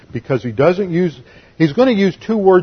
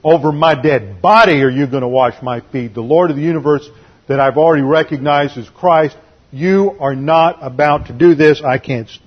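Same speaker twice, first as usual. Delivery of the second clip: arrogant refusal. Retold or imitated. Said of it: "he's obviously being arrogant".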